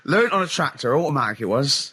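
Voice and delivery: put-on comic West Country accent; mock West Country yokel accent. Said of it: "Don't, don't give up the accent!".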